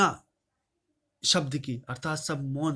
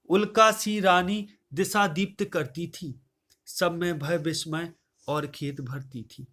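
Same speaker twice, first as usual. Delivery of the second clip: raised, measured verse recital voice; poem recitation. Acted. Teacher reciting Kaikeyi's verse to the class, declaiming.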